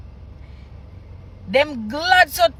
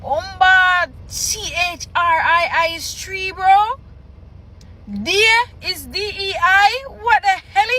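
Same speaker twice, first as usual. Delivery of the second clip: incredulous, higher-pitched reaction; baffled aside; 3 semitones higher than usual. Real, not acted. Reader baffled by Patois spellings of three and day, incredulous aside. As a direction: break off reading, pitch climbing in disbelief.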